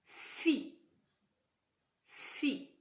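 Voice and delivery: "fi" whispered, fading away; teacher whispering the syllable to the class. Shown as a demonstration. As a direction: breathe out "fi" softly. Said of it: "vous allez écrire".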